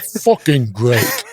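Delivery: slow imitation Cockney British accent; drawn-out mock Cockney, amused; a rock musician. Retelling the rocker's blessing of the governor, imitated Cockney accent. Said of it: "in that Cockney British accent".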